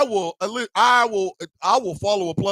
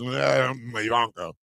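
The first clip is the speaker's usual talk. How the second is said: lovestruck Trump; 8 semitones lower, 5 dB quieter, slower than usual. Retold or imitated. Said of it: "the way he does".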